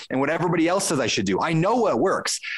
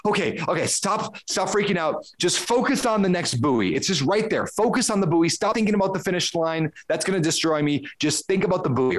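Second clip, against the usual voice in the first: retold self-coaching; 4 semitones higher than usual. Retold self-coaching during panic.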